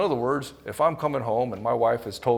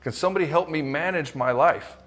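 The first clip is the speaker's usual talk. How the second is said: mock overwhelmed wife; 5 semitones higher than usual.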